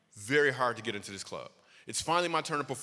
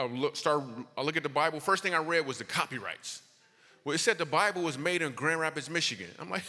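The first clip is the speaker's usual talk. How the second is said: usual speaking voice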